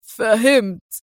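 slow, smiling realization; with a big smile. A narrator's reading. The man finally grasping Adham's meaning, smiling slowly. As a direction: savor the understanding. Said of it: "بابتسامة كبيرة".

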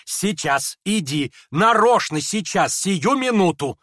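rising to high and loud, slowing at the end; agitated cry. Acted. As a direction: drag him out in a fever of impatience. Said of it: "вскричала она в припадке необычайного волнения".

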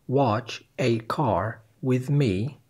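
Watch a car with me read slowly and clearly; slow quiz option; misheard option. Shown as a demonstration. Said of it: "What did you hear".

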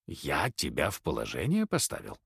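low, soft, hoarse and lost. A narrator's reading. Stunned old husband answers his wife in a hoarse voice. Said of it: "произнёс осипшим голосом".

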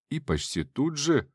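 usual speaking voice

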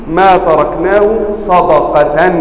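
slow ما تركناه صدقة ending صدقةً; بنصب صدقة ببطء; accusative reading. Retold or imitated. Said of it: "فقالوا".

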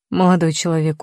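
put-on condescending old doorman; patronizing. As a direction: talk down to the young man. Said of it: "проговорил покровительственным тоном". (покровительственным тоном)

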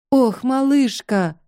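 sighing. Acted. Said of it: "вздохнула она".

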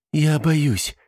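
admitting fear. A narrator's reading. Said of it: "честно призналась Эмили".

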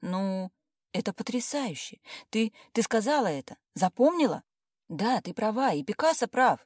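выше и громче, в изумлении; поразиться услышанной фразе; изумлённо ахнув. A narrator's reading. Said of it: "ахнула она". (подруга поражена цитатой о ребёнке)

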